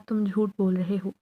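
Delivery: a shaky, frightened accusation; mother trembling as she calls the jinn a liar. Acted. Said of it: "اماں نے لرزتی آواز میں کہا".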